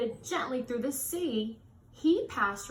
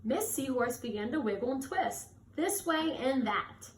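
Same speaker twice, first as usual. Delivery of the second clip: gentle storybook read-aloud; reading to children. A narrator's reading. Reading a picture book aloud.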